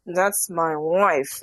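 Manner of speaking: very slow, nasal, throat-blocked mimicry; imitating her nasal voice. Mocking how the wife talks on the show, slow and nasal. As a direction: barely open the throat and push it through the nose. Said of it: "nasal, but it's like she's blocked off her throat".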